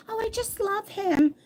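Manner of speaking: high, mock-swooning voice; lovesick younger self. Woman mocking how dumb she was when young, lovesick swoon. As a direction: gush like an infatuated youngster, hammed up.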